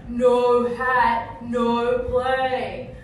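bossy schoolgirl. Retold or imitated. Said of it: "got this girl to ... and go".

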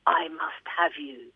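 slow, measured close of a poem; verse recital. Acted. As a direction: drop back and place each word slowly. Ends the quoted verse.

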